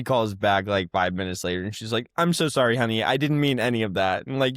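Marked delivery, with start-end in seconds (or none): 2.2-4.3 higher-pitched, placating apology; imitated apologetic mom. Mom calling her daughter back, imitated apology. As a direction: play mom rushing to make up.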